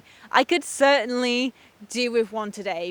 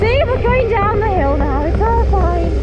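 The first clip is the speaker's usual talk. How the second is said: shaky relief; 7 semitones higher, 4 dB louder than usual. Real, not acted. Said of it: "That was really scary".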